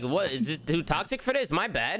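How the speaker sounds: lightly put-on Italian accent; a hint of a joking Italian accent. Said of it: "your "my bad" Italian accent just killed me".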